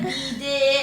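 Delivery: "Bidet" said loudly with the t; mispronounced bidet. Retold or imitated. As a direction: imitate her saying "Bidet" wrong. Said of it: "She always, like".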